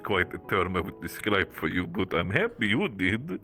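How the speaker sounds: lightly voiced big-brother character; slow, measured in-character reply; a hint of a reserved big brother, unhurried; Gregory. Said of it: "I find that character voice".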